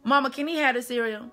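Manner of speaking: put-on high, bright voice coaxing a crying little boy; sweet-talking a crying kid. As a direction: coo up high to cheer the kid up.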